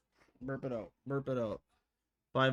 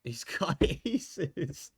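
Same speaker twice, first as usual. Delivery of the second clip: laughing disbelief; 8 semitones higher, much slower than usual. Real, not acted. Reacts to aces.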